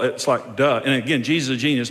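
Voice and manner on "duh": mock duh. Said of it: "I'm not saying duh to him".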